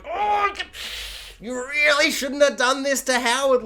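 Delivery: high mock scolding voice, lifted well above her own; sing-song tut-tut at Kim's conscience; mock chiding. YouTuber voicing Kim's inner scold about Howard, high mock chiding. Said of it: "so much more like".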